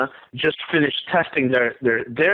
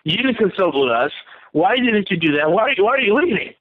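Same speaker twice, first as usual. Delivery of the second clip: higher, alarmed mock outrage; hammed-up indignant panic; mock freak-out; 3 semitones higher than usual. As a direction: play a panicking ally who was left behind. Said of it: "The U S freaks out".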